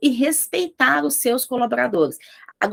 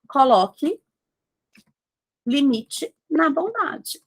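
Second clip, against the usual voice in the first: slow deliberate title; 3 semitones higher, slower than usual. Real, not acted. Slowly stating point nine.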